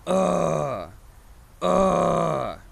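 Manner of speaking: gritty grunt from the throat; false fold growl. Shown as a demonstration. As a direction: grind out a short grunt. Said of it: "just kinda grunt".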